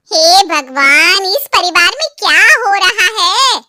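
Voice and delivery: धीमे, ज़ोरदार नाटकीय विलाप; भगवान को पुकारती नाराज़ चाची; चिल्लाती चाची. Acted. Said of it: "इतना क्यों चिल्ला रही हो". (नाटकीय चीख)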